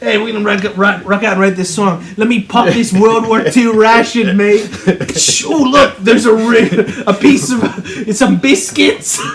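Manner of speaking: mock British band-member accent; hammed-up Liverpool British accent. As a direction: play a band member chatting in a light British accent. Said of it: "the accent you're doing is like".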